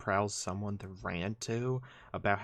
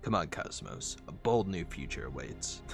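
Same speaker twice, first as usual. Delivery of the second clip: lightly voiced robot partner, a little low; Prowl; 3 semitones lower than usual. Prowl calling Cosmos to come along, understated character voice. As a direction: urge the sidekick along, understated. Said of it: "conversation him and Prowl had earlier".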